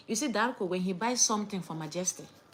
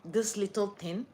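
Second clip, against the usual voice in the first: sneering mock quote; slower than usual. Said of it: "you're saying".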